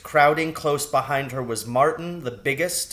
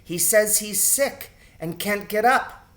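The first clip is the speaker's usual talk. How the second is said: concerned; 7 semitones higher than usual. A narrator's reading.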